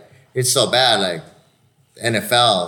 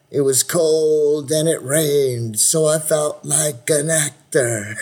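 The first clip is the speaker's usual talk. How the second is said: impression of a singer; 6 semitones higher, much slower than usual. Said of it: "it's a great line".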